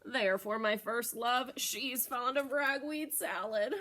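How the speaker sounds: lightly voiced goat customer; Mister Goat voice. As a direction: order the bouquet like a pleased goat. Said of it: "Mister Goat said".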